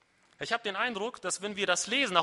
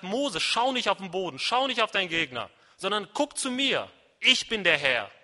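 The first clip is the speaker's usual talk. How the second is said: firm, rousing commands; insistent divine call, punching the last sentence; loud. Acted. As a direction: shake Mose awake with words. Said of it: "das sagt er laut".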